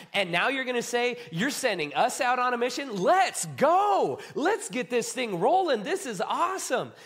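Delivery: pumped-up follower ready for the mission; rally with mounting excitement; excited disciple. Acted. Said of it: "you just feel this excitement and this joy".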